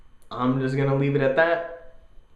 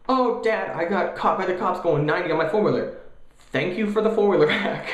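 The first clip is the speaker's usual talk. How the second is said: put-on whiny kid voice; 5 semitones higher than usual. Kid confessing to dad.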